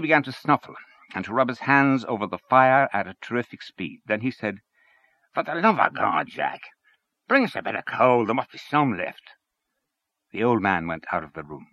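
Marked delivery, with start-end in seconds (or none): 5.3-9.3 Henchy voiced. Henchy voiced in read story.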